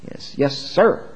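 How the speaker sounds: a hint of resentful obedience; mock subordinate hiding contempt; grudging yes sir. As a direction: say it to a general you hate. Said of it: "like you would say to your commanding general if you hated his guts".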